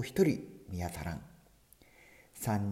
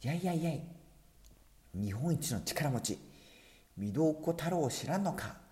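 angry boast; 7 semitones higher than usual. Acted. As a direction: bellow the boast in red-faced rage. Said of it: "男は真っ赤になり".

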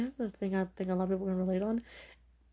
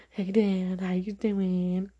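calling out to dad; 7 dB louder, much slower than usual. Real, not acted. Greets her dad on the podcast.

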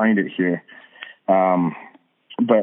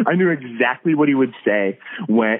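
laughing; 2 semitones higher than usual. Real, not acted. Laughing about his dad's jokes.

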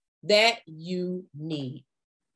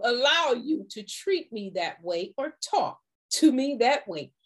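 firm refusal; 2 semitones higher than usual. Shown as a demonstration. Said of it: "let them know".

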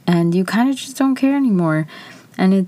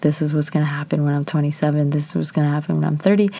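rushed mock plan; faster than usual. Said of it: "writing things down and be like".

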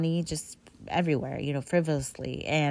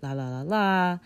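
filler la la. Retold or imitated. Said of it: "beg and say".

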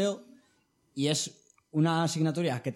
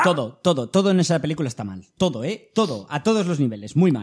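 loud rant; 5 dB louder than usual. Real, not acted. Ranting about the bad film.

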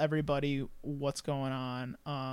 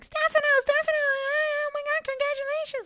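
high, squealing gushing aunt; aunt's excited voice. Retold or imitated. Aunt on FaceTime congratulating her nephew, high and gushing. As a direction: gush like a thrilled aunt on FaceTime. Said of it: "and she's like".

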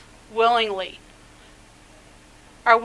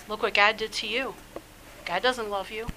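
soft, sly hushed voice, much quieter; enemy's whisper; 3 semitones lower, 10 dB quieter than usual. Acted. Preacher voicing the enemy whispering doubts to the believer, hushed and sly. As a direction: murmur it like a tempter in the ear. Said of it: "he's gonna whisper in your ear".

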